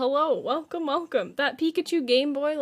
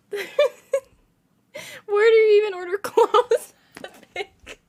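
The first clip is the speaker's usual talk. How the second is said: laughing; 3 semitones higher than usual. Real, not acted. Streamer laughing at chat joke.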